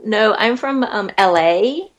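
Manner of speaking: American accent, L A drawn out; Californian accent. Shown as a demonstration. Actor denying she is Australian, Californian accent. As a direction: play a Los Angeles local, Californian accent. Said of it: "U S A California accent".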